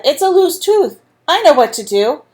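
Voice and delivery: a hint of a confident mother. A narrator's reading. Mother telling Andrew she knows the fix, lightly voiced. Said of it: "she said".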